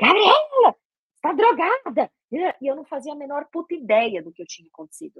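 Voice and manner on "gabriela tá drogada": acted, very high, swooping, accusing fatherly shout. Retelling how the father reacted on seeing her: imitating father shouting. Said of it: "ele começou a gritar comigo".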